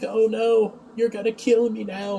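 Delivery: high-pitched mock dread; retold alarm. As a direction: imitate a man fearing for his life. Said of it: "John's like".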